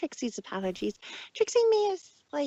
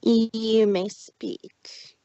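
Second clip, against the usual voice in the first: haughty; 7 dB louder, much slower than usual. Acted. Trixie as haughty monarch.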